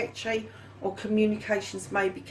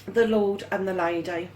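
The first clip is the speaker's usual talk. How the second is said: words stretched by a yawn; 2 semitones lower than usual. Real, not acted. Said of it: "I'm sorry that I'm yawning".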